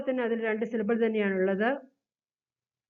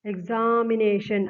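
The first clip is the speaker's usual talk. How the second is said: slow syllable demo; slower than usual. Shown as a demonstration. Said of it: "എക്സ് എന്നുള്ളത് ഒരു syllable".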